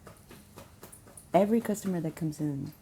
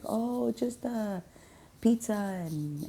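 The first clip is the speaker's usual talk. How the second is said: hesitant order; 5 semitones higher, slower than usual. Retold or imitated. Voicing shy employees ordering food.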